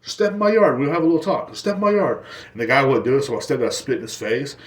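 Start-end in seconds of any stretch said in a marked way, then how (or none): 0.0-2.2 challenging yell. Retold or imitated. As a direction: dare him to step onto your lawn. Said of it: "started yelling at my stepdad".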